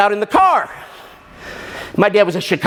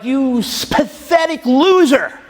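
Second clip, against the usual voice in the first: furious self-insult; 5 semitones higher, slower than usual. Retold or imitated. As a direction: spit it out at yourself, slowly. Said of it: "And I'm furious".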